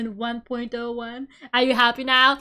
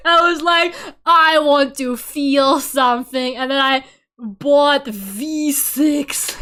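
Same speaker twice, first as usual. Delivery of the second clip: laughing through words; 8 dB louder, slower than usual. Real, not acted. Retelling sad impulse purchase.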